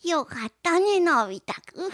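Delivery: 大山のぶ代のドラえもん. Retold or imitated. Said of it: "大山信代バージョンだった気がする". (ドラえもんの声まね)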